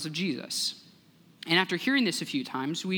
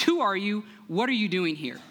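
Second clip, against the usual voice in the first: guard's challenge; 4 semitones higher than usual. Acted. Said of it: "the guard repeated his two questions".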